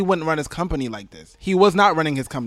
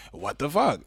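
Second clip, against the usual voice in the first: flat disbelief; 4 dB quieter than usual. Retold or imitated. Caller answering his cousin, flat stunned disbelief. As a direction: say it drained and resigned. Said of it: "And I was like".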